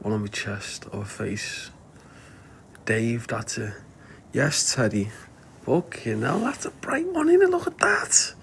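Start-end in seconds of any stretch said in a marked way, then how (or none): 5.6-8.3 hushed, much higher whisper of wonder; breathless awe at something bright; amazed whisper. Real, not acted. Owner marvelling at a bright light to his dog, hushed amazement.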